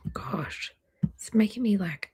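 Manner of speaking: breathy emotional whisper. Real, not acted. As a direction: whisper it, almost tearing up. Emotional reaction reading chat names.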